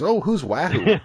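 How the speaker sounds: put-on high, lilting Winnipeg accent; thick Winnipeg accent. Lady in a store asks about the shirt, thick Winnipeg accent. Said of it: "she's got this thick Winnipeg accent".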